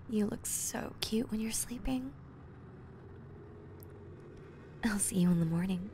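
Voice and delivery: hushed goodnight whisper; soft whisper over sleeping partner; tender whisper. Acted. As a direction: whisper so they stay asleep.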